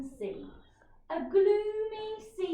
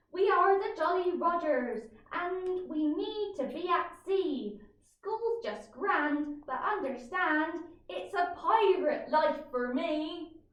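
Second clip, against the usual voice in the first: put-on pirate boy voice; 3 semitones higher than usual. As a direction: proclaim it like a proud pirate. Pirate note read aloud.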